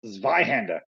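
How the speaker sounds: Zweihander with a German "tsvai" onset; put-on German accent on the drill name. Shown as a demonstration. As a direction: say it as a German word. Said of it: "why do you say it in an accent".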